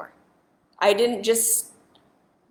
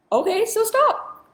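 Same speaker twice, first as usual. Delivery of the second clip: inner voice saying stop; 13 semitones higher, 3 dB louder, slower than usual. Retold or imitated. Inner voice telling herself stop.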